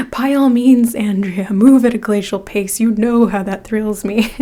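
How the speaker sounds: lightly voiced icy boss granting a mock permission; Miranda-style sarcasm. Tarot reader quoting the boss to the viewer, mock sarcastic. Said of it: "the devil wears Prada".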